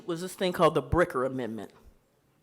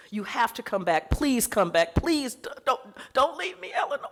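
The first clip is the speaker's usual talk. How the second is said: plaintive wail; 4 semitones higher than usual. Retold or imitated. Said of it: "Those letters are plaintive wails".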